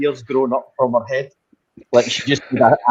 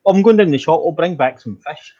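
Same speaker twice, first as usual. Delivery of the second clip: high, louder breezy announcement; casual announcement; 4 semitones higher, 3 dB louder than usual. Retold or imitated. Owner announcing a shop trip near the cat, breezy. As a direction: call out lightly you're off to the shop. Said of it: "they had to start using different words".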